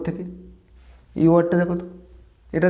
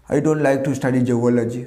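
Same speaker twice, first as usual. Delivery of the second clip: slow dictation; 2 semitones lower, much slower than usual. Shown as a demonstration.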